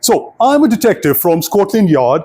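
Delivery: lightly attempted Scottish accent; mock Scottish detective voice. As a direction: play a detective with a hint of Scottish. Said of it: "gonna make it Scottish now".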